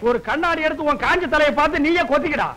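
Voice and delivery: irritated telling-off; scolding. Acted. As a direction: throw the insult back at the nephew. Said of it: "ஏன்பா அவன் இப்படி திட்டுற". (எரிச்சலுடன் திட்டுவது)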